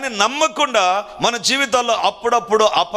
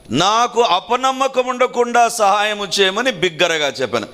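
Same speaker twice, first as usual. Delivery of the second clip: careful reading. Shown as a demonstration. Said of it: "జాగ్రత్తగా".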